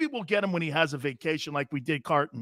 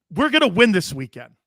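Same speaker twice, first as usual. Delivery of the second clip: louder put-on Southern accent; 6 dB louder than usual. Host repeating coach McCarthy's promise, emphatic Southern accent. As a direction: push the Southern accent harder. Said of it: "my, my Southern accent".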